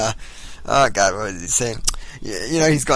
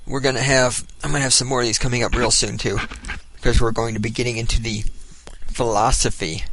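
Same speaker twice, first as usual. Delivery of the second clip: pipe in mouth. Real, not acted. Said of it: "I can't talk with a pipe in my mouth".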